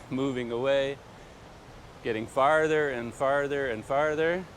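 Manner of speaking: calling back while walking off; walking away, farther off. Real, not acted. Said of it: "as I move away from the camera".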